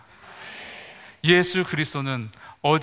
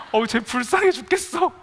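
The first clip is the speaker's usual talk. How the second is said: higher, louder, put-on pitying voice; mock pity; 7 semitones higher, 4 dB louder than usual. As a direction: coo over him like a pitying churchgoer. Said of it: "불쌍하게 쳐다보고 계세요".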